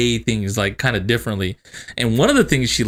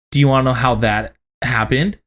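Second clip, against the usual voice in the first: measured, dead-serious question; deadpan mom. Retold or imitated. Mom addresses kids in the kitchen, deadpan. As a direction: pose it with a straight face. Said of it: "my mom dead ass looks at all of us".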